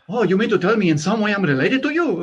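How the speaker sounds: high, loud incredulous question; mock astonishment. Friend realizing he may be related to him, mock-amazed, high and loud. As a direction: act out a friend's amazed discovery. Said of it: "Evan goes".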